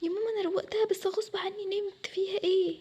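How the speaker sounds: high, plaintive self-defence; whiny excuse. Acted. Daughter excusing falling asleep to mother, plaintive. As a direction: plead that it was not on purpose.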